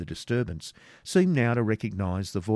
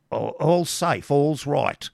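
raised, high hermit voice with drawn-out words; hasty reassurance; 6 semitones higher, 5 dB louder, slower than usual. Acted. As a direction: call the all-clear, loud and high. Hermit reassures his alarmed companion.

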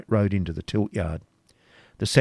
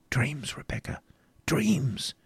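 higher, dismissive knight's voice; Templar, scornful; 6 semitones higher, 6 dB quieter, slower than usual. A narrator's reading. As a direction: brush her words aside as mere dreams.

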